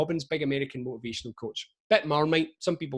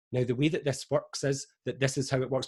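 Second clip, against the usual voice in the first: scientist voice. Shown as a demonstration. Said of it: "that's my scientist voice".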